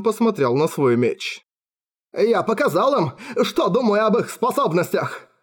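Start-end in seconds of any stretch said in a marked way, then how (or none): 2.1-5.3 slowly. A narrator's reading. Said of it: "медленно произнёс он".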